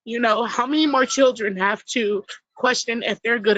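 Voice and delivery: pleading mother holding back tears; getting emotional. Real, not acted. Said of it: "I'm sorry, I'm getting emotional".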